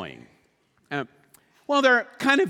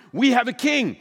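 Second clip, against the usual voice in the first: herald's announcement; 6 semitones higher, 5 dB louder than usual. Retold or imitated. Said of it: "heralds were sent out to announce".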